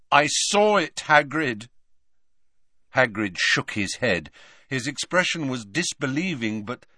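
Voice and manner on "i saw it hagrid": raised, emphatic insistence; insistent. Acted. Harry insisting to disbelieving Hagrid, emphatic. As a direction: pitch it up and press the point.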